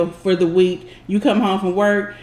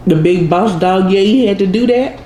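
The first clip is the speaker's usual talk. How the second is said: talking with a mouth full; words round a bite of food; 3 dB louder than usual. Real, not acted. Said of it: "talking with my mouth full".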